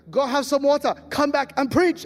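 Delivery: loud bossy pastor telling him off; loud mock command; mock order. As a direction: bark it like a pastor sending him away.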